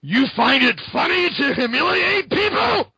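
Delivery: high sneering mock shout, then settling; mock angry villain. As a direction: taunt the jester like a hammy villain. Retelling comic villain confrontation.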